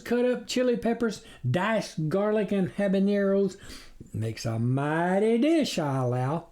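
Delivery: a sly predator playing innocent; sly stranger. Coyote stranger boasting to the farmers, sly voice.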